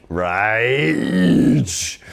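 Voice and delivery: long drawn-out, enthusiastic answer; emphatic. Real, not acted. Guest answering the music channel question, emphatic. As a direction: stretch the word out with gusto.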